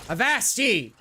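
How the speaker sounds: gruff pirate call; old sailor. Pretend. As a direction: bark it like a sea dog. Pirate talk in game.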